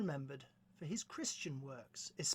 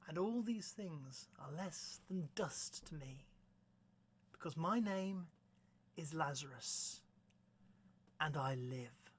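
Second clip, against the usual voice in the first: poem recitation. Acted. Presenter reading The Convert to listeners, measured solemn recitation. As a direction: recite deliberately, phrase by phrase, letting endings drop.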